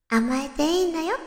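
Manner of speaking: 包み込む優しさ. Acted. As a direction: comfort him gently. 包み込むセリフを演じる. (姉御肌で優しく包み込むように)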